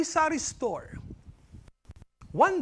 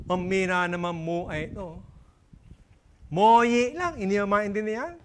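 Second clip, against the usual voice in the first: impaired customer. Acted. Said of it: "ay ngongo din".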